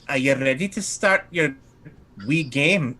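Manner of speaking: put-on lilting accent meant for Madame Dimitri; lightly put-on accent, the wrong one; wrong character accent. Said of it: "I'm doing the wrong accent".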